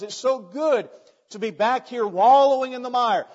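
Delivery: loud, high, exultant preaching voice; delighted pig. Acted. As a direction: belt out the pig's relish. Pig rejoices at being back home.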